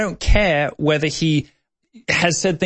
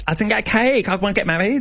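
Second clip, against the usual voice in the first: mock whiny voice; 7 semitones higher than usual. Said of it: "it's more like".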